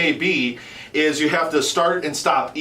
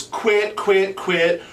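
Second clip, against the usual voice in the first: call cadence syllables; 4 semitones higher, much slower than usual. Shown as a demonstration. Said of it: "a great reference to start with".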